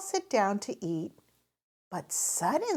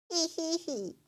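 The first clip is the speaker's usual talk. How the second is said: giggling; 8 semitones higher, 4 dB quieter than usual. A narrator's reading. Children giggle.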